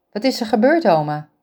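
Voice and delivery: hoger, snel doorratelend en bezorgd; bezorgde jonge vrouw. Acted. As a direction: een jonge verzorgster die zich zorgen maakt om haar oma. Ingrid vraagt haar oma. (bezorgde Ingrid, hoger en luider pratend)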